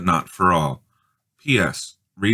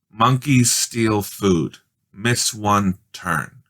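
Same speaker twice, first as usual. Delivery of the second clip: reading the square; much slower than usual. A narrator's reading. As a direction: spell out the message slowly. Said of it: "she read".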